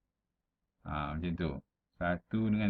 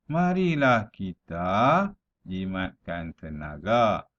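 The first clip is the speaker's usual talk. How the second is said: measured verse reading, line by line; deliberate classroom poem reading; pantun recitation; slower than usual. Shown as a demonstration. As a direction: recite the rhyme clearly with drawn-out phrase ends. Reads a pantun aloud.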